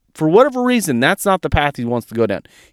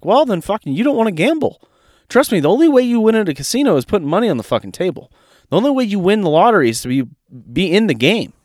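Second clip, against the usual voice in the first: higher and fast, pushing the point hard; heated retold reply; 5 semitones higher, faster than usual. Telling an Instagram follower off, fast and heated. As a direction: rattle it off like a fed-up mentor.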